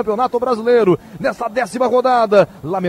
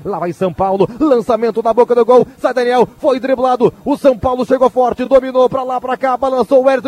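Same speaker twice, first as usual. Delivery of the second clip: live play-by-play. Acted.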